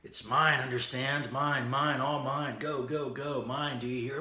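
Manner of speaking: crying out. Retold or imitated. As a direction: shout to guard the pearl. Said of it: "he's crying out".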